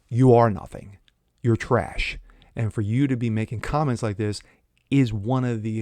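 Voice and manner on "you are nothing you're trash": loud, cutting put-down; angry jab. Real, not acted. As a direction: slam him with it. Ranting at LeBron.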